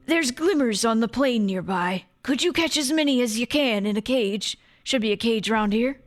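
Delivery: lightly voiced dwarf with an accent; a hint of a put-on game character; Seem. Dwarf sending Sophie to catch glimmers, lightly put-on accent. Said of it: "I did a cool voice that wasn't my own".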